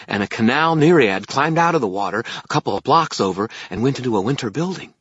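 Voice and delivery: high, loud little fairy reporting; excited fairy. Acted. Fairy tells wizard what the courts do, high fairy voice. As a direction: pipe the news out eagerly, high and loud.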